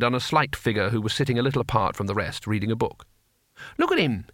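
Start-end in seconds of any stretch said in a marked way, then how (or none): 3.8-4.3 put-on high, indulgent old warrior; benevolent. A narrator's reading. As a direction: show him off fondly. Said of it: "he said benevolently".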